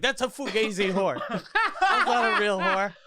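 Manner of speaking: high, loud laughing yell; loud sharp voice. Retold or imitated. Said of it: "Guido's like".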